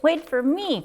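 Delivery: high little Mouse voice calling; Mouse crying out. Acted. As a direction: call after them as tiny Mouse. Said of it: "cried Mouse".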